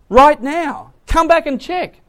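high, loud acted insistence; urgent plea. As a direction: press them to come at once. Acted Lot urgently pleading with family.

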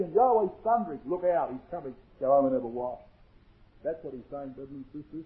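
very soft, low preaching aside; hushed warning. Real, not acted. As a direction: fade down to a near murmur. Sudden hush after proclaimed majesty.

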